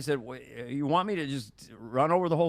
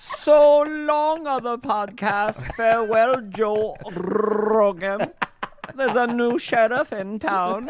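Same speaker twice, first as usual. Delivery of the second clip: very loud, slow, booming, drawn-out delivery; 6 semitones higher, 8 dB louder than usual. Celebrating the five hundredth episode in a Hans and Franz voice. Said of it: "that voice, that attitude".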